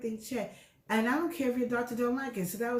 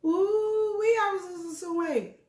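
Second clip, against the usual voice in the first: high, loud sung whoop of joy; delighted squeal; 11 semitones higher, 5 dB louder, slower than usual. Real, not acted. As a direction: belt out a happy, singing "ooh wee". Delighted about losing weight.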